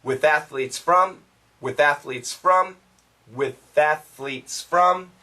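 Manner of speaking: with athletes from, the S joined into from; with athletes from, drilled smoothly; linking the S. Shown as a demonstration. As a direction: carry the S of athletes into from. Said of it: "Keep this S".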